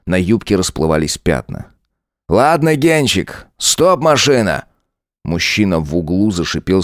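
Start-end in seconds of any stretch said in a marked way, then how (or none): 2.3-4.7 a lightly voiced sneering cop, slow and taunting; mocking lieutenant. Lieutenant Saigar mocking Tanya, lightly voiced sneer. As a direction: lean into the lines like a smug bully.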